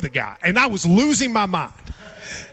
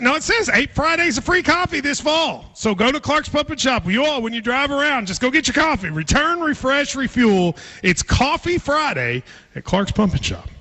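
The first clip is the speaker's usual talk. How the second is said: upbeat, higher-pitched radio promo; punchy host ad delivery, lifted pitch; sponsor ad read; 5 semitones higher than usual. Real, not acted. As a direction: sell it like a live radio read. Reads a sponsor ad.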